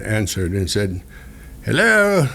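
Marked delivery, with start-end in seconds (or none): 1.6-2.3 put-on high, sing-song Hello with a light Spanish accent; lightly mock the Spanish accent of the gate lady. Gate lady answering the speaker, light Spanish accent. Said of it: "however she did it".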